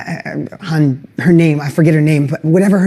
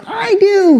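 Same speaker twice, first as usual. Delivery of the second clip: crowd shouting back; 11 semitones higher than usual. Retold or imitated. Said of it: "Everybody's fired up".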